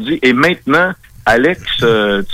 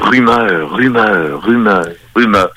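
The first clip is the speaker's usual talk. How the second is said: echo effect; 3 semitones lower, slower than usual. Pretend. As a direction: voice repeating and fading like an echo. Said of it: "Je fais un effet, euh, d'écho".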